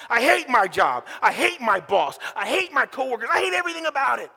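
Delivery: resentful griping, building to a shout; griping churchgoer venting; bitter complaint. Pretend. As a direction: whine then blow up about everything.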